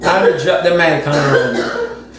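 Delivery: "I'ma drop the mic on road" said slowly and firmly, no laugh; slow, deliberate. Real, not acted. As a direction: lay it down slow and final. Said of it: "repeated slowly after the laugh".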